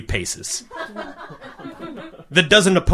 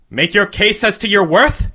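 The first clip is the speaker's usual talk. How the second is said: higher, grand queenly voice; regal command; 6 semitones higher than usual. A narrator's reading. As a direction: speak down from the throne. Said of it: "she said".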